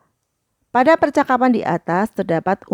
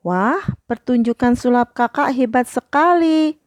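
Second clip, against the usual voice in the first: higher-toned model praise sentence; high praise intonation; 5 semitones higher than usual. Shown as a demonstration. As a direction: praise read out in a higher pitch. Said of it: "kalimat pujian itu dengan intonasi yang nada tinggi".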